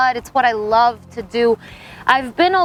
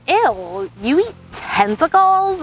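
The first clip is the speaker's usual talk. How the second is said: imitating a disgusted friend, high and squeaky on tentacles; mock the friend's disgust in a higher put-on voice; grossed-out friend; 5 semitones higher, slower than usual. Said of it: "And she's like".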